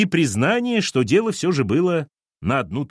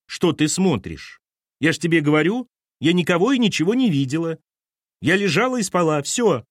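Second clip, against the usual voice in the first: Lena's voice; 6 semitones higher than usual. A narrator's reading. Lena voiced in the story.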